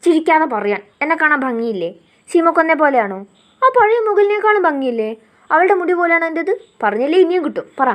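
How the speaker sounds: a hammed-up shout at him; mock yelling. She playfully yells at him to praise her hair. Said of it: "അവൾ വീണ്ടും അലറിക്കൊണ്ട്".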